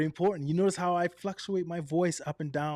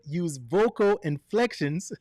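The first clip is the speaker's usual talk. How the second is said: slow, lively read with a laugh; enthusiastic retake; 3 dB louder than usual. Shown as a demonstration. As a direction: show off vocal inflection. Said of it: "let's do it again".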